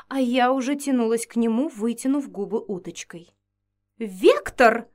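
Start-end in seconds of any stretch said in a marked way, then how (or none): 4.0-4.9 loud sharp cry of "Вектор!"; shrill call. Acted. Vampiress catches her fiancé, shrill loud call. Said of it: "раздался визгливый голос".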